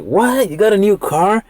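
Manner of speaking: high-pitched amazed reaction; surprised friend. Retold or imitated. Friend reacts to new car.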